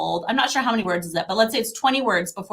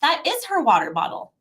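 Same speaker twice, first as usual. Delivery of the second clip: gentle modeling; 6 semitones higher than usual. Shown as a demonstration. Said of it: "we wanna be like".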